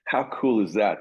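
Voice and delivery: a mild mock of an excited mentor; impressed exclamation. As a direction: imitate him lighting up at the solo. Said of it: "he was like".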